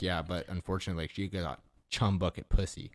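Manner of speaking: matter-of-fact, deadpan retelling; imitating someone entirely in earnest; dead serious. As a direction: state it as a plain regrettable fact. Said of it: "he was being dead serious".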